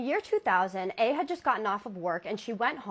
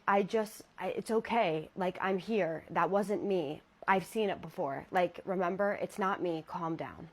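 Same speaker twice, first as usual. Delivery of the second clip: reassuring; 2 semitones lower than usual. Retold or imitated. Fiance calming her.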